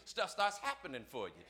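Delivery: usual speaking voice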